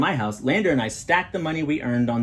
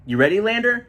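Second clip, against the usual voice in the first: shout; 9 semitones higher, 4 dB louder than usual. A narrator's reading. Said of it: "I shout".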